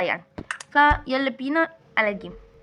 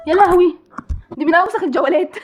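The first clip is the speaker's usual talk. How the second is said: loud exasperated outcry; 4 semitones higher, 6 dB louder than usual. Real, not acted. Exclaims at a dreadful level.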